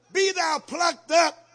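slow, loud and high "be thou plucked up"; proclaiming. Acted. Preacher commanding the tree, slow loud proclamation. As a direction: declare it slowly with force.

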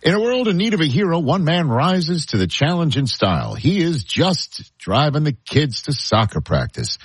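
upbeat live ad read. Acted. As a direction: sell it like a radio spot. Host reads live car ad.

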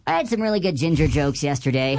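squeaky helium-balloon voice. Real, not acted. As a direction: talk after inhaling helium. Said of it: "helium balloon break".

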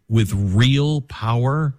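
slow, drawn-out mock movie line; slow grand mock delivery; mock grandiose. Shown as a demonstration. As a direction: ham it up like a superhero slogan.

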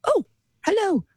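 slow, prim English lady greeting a kitten; a touch of a dainty grandmother, drawn out; proper old lady voice. Retold or imitated. English grandmother greeting the boy's kitten, slow prim voice. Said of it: "You love the voice".

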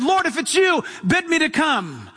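rising, eager call across the water; Peter's eager plea. Retold or imitated. Peter calling to Jesus from the boat, eager plea. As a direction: call out to him, hopeful and bold. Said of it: "it was so radical that he said".

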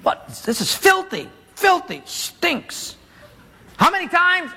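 an angry general complaining in muddy water; furious grumbling. Acted. Naaman griping to his servant in the Jordan, furious. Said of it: "and he's furious".

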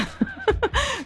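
high, light giggle; quick high titter; amused laugh. Real, not acted. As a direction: giggle softly at the punchline. Laughs at listener's message.

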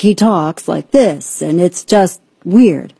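slow, halting mock cadence; Gavin Newsom. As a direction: mimic a weirdly drawn-out speaking rhythm, word by word. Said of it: "His cadence is weird".

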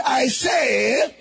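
shouted declaration for the crowd to echo; loud call-and-response declaration. Shown as a demonstration. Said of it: "Say it again".

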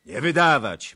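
high, loud protest; calling out. A narrator's reading. Another Cossack calling not to hand him over, loud. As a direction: call out against it. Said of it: "wołał inny".

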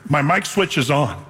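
firm retort. Retold or imitated. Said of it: "I said it firmly".

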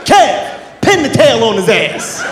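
hammed-up shout, slowing down; calling out angrily. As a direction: holler an order across the bar. Uncle calls out at the bar.

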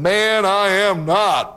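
a hint of a stubborn Peter; Peter's denial. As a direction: insist on it slowly, voice lifted. Peter's second denial, acted.

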